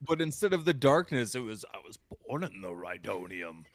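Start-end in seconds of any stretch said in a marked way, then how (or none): 1.7-3.6 mock villain rant about fuel, pitched way up; hammed-up villain monologue. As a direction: ham it up like a crazed villain.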